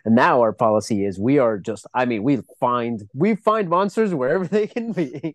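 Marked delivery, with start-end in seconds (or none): 3.2-5.3 laughing mockery. Real, not acted. Mocking American foreign policy.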